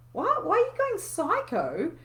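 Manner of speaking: put-on high, loud bewildered child; startled kids. Kids asking mum why she's going psycho, high bewildered. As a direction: play the confused child, high.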